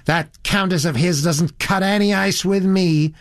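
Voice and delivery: put-on high, sustained American girl's complaint; high, shrill girl. A narrator's reading. Elizabeth disparaging the Countess, high and shrill. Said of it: "said the girl in a rather high, shrill voice".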